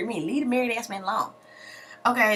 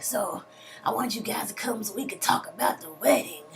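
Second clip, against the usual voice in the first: whispered, laughing invitation; whispered mock invite; 3 semitones higher, 4 dB quieter than usual. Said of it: "she's like".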